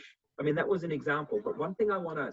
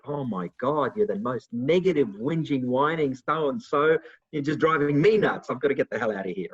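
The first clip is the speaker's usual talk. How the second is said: louder, fed-up outburst, dragging out whining; exasperated rant; 5 dB louder than usual. Retold or imitated. Fed up with a negative friend, exasperated loud rant. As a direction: vent like you've had it with them.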